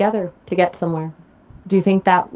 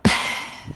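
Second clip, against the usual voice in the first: short voiceless sigh; wordless exhale before answering; 5 dB quieter than usual. Real, not acted. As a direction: let out a quick, soft sigh. Reacts before answering about parents.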